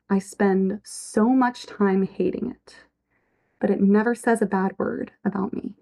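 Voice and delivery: measured, heartfelt reading of a lyric; poem recitation. Acted. Host reciting a lyric to her audience, tender reading.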